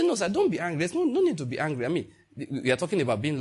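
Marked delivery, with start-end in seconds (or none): 0.0-1.9 nice soothing reply. Retold or imitated.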